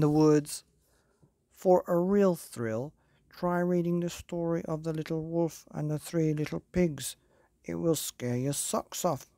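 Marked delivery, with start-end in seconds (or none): 1.5-9.3 spooky blurb voice. Acted. Blurb on the book's back cover.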